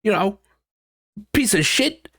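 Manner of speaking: high, snippy mock comeback; hammed-up defensive partner; mock retort. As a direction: snap back, insulted, in a silly voice. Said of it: "they feel attacked and they're like".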